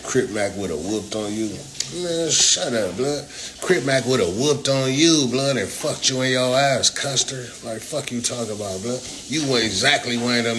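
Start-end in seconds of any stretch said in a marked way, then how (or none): 2.0-5.5 angry retort. Real, not acted. Heated argument on stream.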